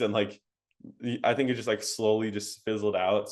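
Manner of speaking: normal talking voice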